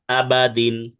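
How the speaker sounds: আবাদিন with a short unstretched বা. Shown as a demonstration. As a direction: keep the বা in আবাদিন clipped short. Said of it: "বাতে টানা যাবে না".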